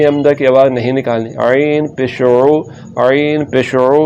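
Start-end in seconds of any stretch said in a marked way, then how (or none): 1.4-4.0 ऐन and ओ from the throat, not a glottal hamza; slow pharyngeal ओ; throaty ain. Shown as a demonstration. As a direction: squeeze the ain in ऐन पेश ओ. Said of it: "ऐन के बाद निकालनी".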